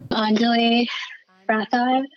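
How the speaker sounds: "Anjali" said AHN-juh-lee, then "Rathod" separately; name pronunciation demo. Shown as a demonstration. Guest shows host how to say "Anjali Rathod", distinct pronunciation demo. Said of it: "Can you please pronounce your name".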